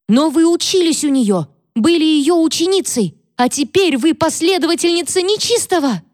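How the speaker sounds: very high, climbing accusing cry; hysterical accusation. Acted. Catherine accuses Mary of following the devil in a very high voice. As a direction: rise toward a horrified peak.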